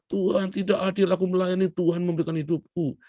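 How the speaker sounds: a preacher hamming up a sick pastor shouting at God; mock shouting. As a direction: yell your grievance at heaven. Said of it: "kamu teriak-teriak".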